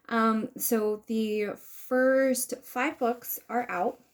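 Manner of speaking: talking through a nosebleed; nose blocked by a nosebleed. Real, not acted. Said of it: "It's the bloody nose".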